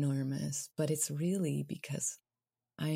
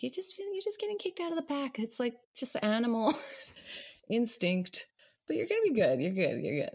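high reassuring voice; 9 semitones higher, 3 dB louder than usual. Retold or imitated. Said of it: "I'm like".

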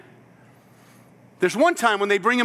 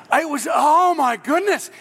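exasperated; 5 semitones higher, 3 dB louder, slower than usual. Real, not acted. Recalling awful ska service.

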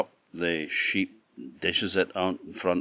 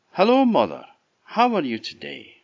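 put-on high, bright boyish greeting, much higher; Jack's eager voice; 8 semitones higher, 5 dB louder than usual. A narrator's reading. Jack politely greets the big woman, high boyish voice. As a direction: chirp it up like a cheeky lad.

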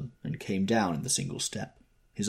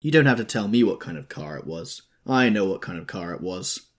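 louder, pleading and raw; a grieving man crying out louder; desperate cry; 7 dB louder than usual. A narrator's reading. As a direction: cry it out through grief. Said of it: "a new theme found voice amongst his grasping cries".

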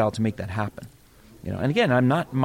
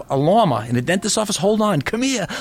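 mocking Boston accent; 7 semitones higher than usual. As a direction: jeer like a Boston guy rounding up friends. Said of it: "like in The Departed".

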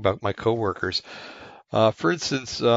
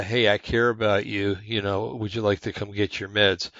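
gentle caring question. Retold or imitated. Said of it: "pose it as a question".

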